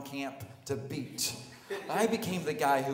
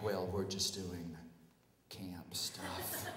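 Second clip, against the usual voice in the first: bashful reply; 6 semitones lower, 7 dB quieter, slower than usual. Retold or imitated.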